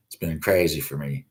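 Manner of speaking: ordinary delivery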